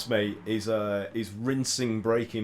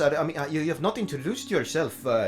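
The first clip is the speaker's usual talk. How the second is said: hesitant actress voice; 6 semitones higher than usual. Acted. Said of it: "she turns to you and she's like".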